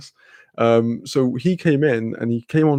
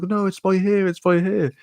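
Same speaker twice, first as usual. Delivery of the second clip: higher-pitched retold insistence; insistent directing; 7 semitones higher than usual. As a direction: act out guiding someone who is confused. Calling directions to confused girl.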